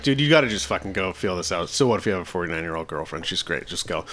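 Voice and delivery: low, soft imitation of a friend; retold calm advice. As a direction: voice the friend's pep talk low and quietly. Friend's advice acted out in story.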